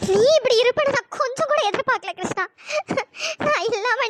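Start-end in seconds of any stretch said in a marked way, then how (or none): 0.1-2.4 crying. Acted. Jilted wife weeps over husband.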